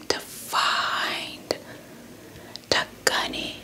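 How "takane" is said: plain reading voice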